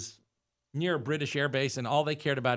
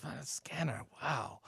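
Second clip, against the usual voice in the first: soft, awestruck aside; imitating an impressed bouncer; hushed amazement; 11 dB quieter, slower than usual. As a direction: marvel under your breath, much softer. Bouncer quietly marvels to his buddy.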